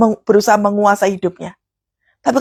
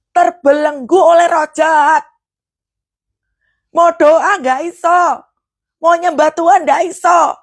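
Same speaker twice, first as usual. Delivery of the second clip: fervent preaching; 7 semitones higher than usual. Acted. Fervent preaching about bondage.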